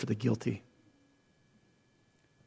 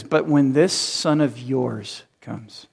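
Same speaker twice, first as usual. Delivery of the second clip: slow, disdainful drawl; contempt; 2 semitones lower, 4 dB quieter, much slower than usual. Retold or imitated. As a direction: sneer at "this son of yours". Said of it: "the contempt".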